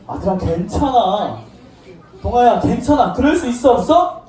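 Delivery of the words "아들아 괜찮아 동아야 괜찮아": lower, reassuring acted voice; comforting father. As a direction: play a father gently reassuring his son. Father comforts returning son. (다독이는 아버지 목소리)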